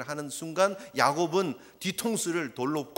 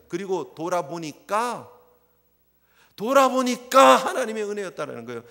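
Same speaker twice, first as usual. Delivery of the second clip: louder, indignant protest as Jacob; mock rebuke; 3 semitones higher, 5 dB louder than usual. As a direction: plead and rebuke like a wronged worker. Voicing Jacob rebuking Laban.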